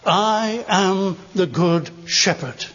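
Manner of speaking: slow, measured, assured declaration; sincere assurance. Retold or imitated. Preacher quotes Jesus's claim to the flock, slow and assured. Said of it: "he says with great sincerity".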